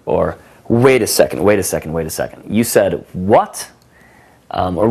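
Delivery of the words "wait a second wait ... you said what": dramatic disbelief. Shown as a demonstration. Coach demos the wait-a-second move, disbelieving. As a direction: stop her with mock disbelief. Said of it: "what I would call "wait a second".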